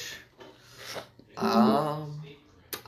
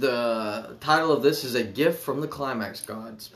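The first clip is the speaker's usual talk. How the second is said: smooth product pitch, selling hard; sleazy salesman. Acted. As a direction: read it like a pushy salesman. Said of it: "Put on your good salesman voice".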